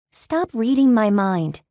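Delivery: irritated snap. Acted. Narrator snaps at demon.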